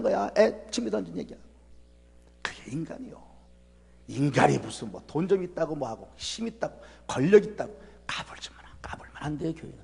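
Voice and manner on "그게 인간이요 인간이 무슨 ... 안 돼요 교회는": hushed, breathy sermon whisper; sudden hushed preaching. Real, not acted. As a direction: draw them in with a whisper. Sermon drops to a hush.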